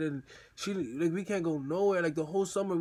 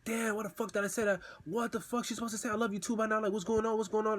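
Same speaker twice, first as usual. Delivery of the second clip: higher, mildly panicked inner voice; retold panic; 4 semitones higher, faster than usual. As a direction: fret to yourself in a mild mock panic. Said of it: "I'm panicking".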